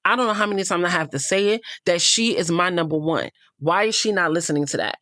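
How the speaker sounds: mildly exasperated retelling, hurried in places; a touch of frustrated venting; retold frustration. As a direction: imitate a man fed up with repeating himself. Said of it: "he's, like, really frustrated".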